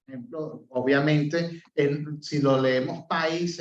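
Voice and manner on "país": país said as PA-is, weight on the A; slow país with the stress on A; país read without the tilde; wrong stress. Shown as a demonstration. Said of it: "decimos país no existe".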